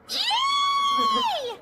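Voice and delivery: shrill high shout of joy; squealing cheer. Acted. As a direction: squeal it out loud. Cheering about staying together.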